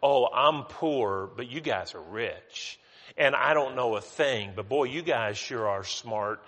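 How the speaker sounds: Paul mocking the proud Corinthians, sarcastically; sarcastic. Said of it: "he said sarcastically".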